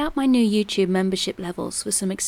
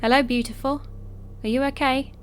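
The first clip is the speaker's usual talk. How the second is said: lightly voiced slimy stranger; a hint of a leering accented man; creepy sweet-talk; 2 semitones higher than usual. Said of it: "I heard an accented voice call out".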